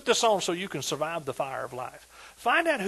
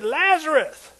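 loud high call then slow question; 8 semitones higher, 5 dB louder, much slower than usual. Retold or imitated. Jesus asking Lazarus, loud then slow drawn. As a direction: call his name, then ask slowly. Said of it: "and Jesus said".

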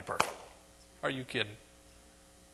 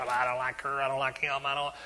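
grumbling churchgoer; 2 semitones lower, 4 dB quieter than usual. Retold or imitated. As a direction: mutter the judgement half to yourself. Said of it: "We'd be sitting there thinking about you".

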